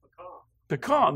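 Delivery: "Pecan" as pih-kahn, short first vowel; Texas pecan pronunciation. Shown as a demonstration. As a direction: say "Pecan" quickly, ending in kahn. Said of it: "That's how they say it in Texas".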